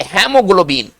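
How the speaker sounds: हेमोग्लोबिन with हे, not हीमो; English pronunciation. Shown as a demonstration. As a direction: say हेमोग्लोबिन starting हे. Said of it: "Hindi में लिखते हीमो".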